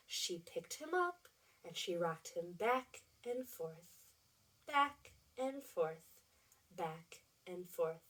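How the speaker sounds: hushed read-aloud. A narrator's reading. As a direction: tiptoe through it so nobody wakes. Hushed night scene for children.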